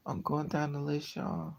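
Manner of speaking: normal talking voice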